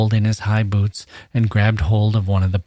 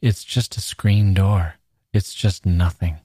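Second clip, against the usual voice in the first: gentle. Acted. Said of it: "said gently".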